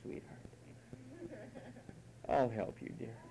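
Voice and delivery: low, soft, coddling mother; mock-tender babying; doting mom. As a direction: imitate a mother fussing over a child. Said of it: "remember how Mom used to say".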